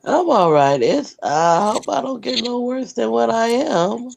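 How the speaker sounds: a little hoarse from being sick. Real, not acted. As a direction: talk through a sore, hoarse throat. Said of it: "Only sound like a little hoarse".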